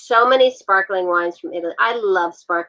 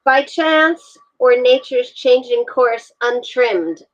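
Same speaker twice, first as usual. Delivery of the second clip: reading a sonnet line; 4 semitones higher, slower than usual. Acted. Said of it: "am I saying that right".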